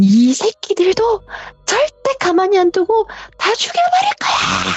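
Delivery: ghostly screaming voice.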